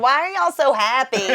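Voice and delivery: badly faked Boston accent; loosely imitated Boston accent. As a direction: attempt a Boston accent and miss. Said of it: "In their weird Boston accent".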